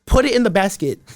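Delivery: exasperated, amused rant at a teammate who can't score; mock outrage at the player. Yelling at a game player.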